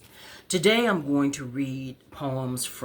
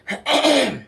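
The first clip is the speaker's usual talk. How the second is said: coughing; 7 dB louder than usual. Real, not acted. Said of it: "I'm coughing like this".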